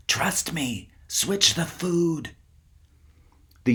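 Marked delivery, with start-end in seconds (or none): 0.1-2.3 hushed, slow, insistent whisper; urgent whisper. A narrator's reading. Kip urges his friends in the dark, whispering insistently. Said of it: "He whispered to Sabri and Yael".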